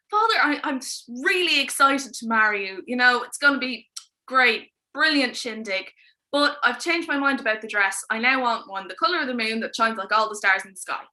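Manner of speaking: a daughter buttering up her father; gushing princess. Acted. Princess to the king, loud fake excitement.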